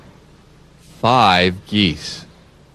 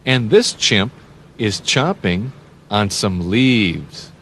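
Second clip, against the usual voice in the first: normal talking voice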